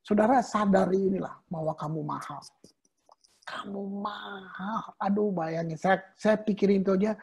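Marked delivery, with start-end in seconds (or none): 3.4-4.9 very soft, slow half-whisper; hushed awe. Real, not acted. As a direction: whisper it slowly, letting it sink in. Preacher repeats key phrase in awe. (berbisik pelan penuh takjub)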